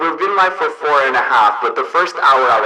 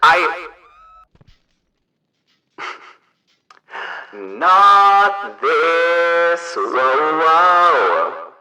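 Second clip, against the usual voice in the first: megaphone voice changer. Real, not acted. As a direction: talk through a megaphone effect. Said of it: "it should sound like a megaphone".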